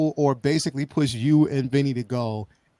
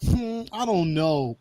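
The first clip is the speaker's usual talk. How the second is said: slow, drawn-out mock pondering; retold hesitation; 4 dB quieter, slower than usual. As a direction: hum and hesitate, acting out doubt. Retelling initial hesitant reaction.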